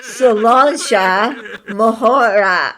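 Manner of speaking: "Solancha Mahora" drawn out slowly, sound by sound; demonstrated pronunciation. Shown as a demonstration. Correcting friends' "Sriracha" version, slow "Solancha Mahora", laughing. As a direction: say "Solancha Mahora" slowly as "suh-LAWN-chuh muh-HOR-uh". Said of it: "I can say Solancha Mahora".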